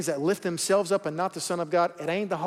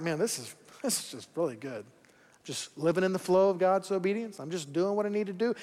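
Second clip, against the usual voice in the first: soft contentment; 5 dB quieter than usual. Retold or imitated. Rafter in the flow, hushed and content. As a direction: sigh it out, at ease.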